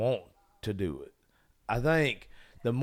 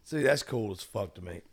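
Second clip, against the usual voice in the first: hoarse voice. Real, not acted. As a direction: voice going hoarse, nearly gone. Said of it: "I am literally losing my voice".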